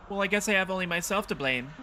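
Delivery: high-pitched resigned granny; resigned old lady. Acted. Evicted old lady blames herself, high resigned granny voice.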